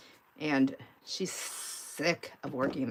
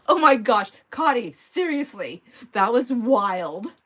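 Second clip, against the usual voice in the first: higher, louder, slowed amazement; amazed; 5 semitones higher, 7 dB louder, slower than usual. Real, not acted. Streamer amazed that a viewer commented right when named, higher, louder and slow. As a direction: marvel at the eerie timing.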